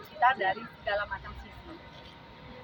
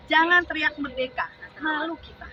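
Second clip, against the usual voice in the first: emphatic, higher-pitched poetry reading; poem recitation; 4 semitones higher, 5 dB louder than usual. Acted. Woman reciting a Taufik Ismail poem to supporters, declamatory. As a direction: declaim the opening lines of a poem.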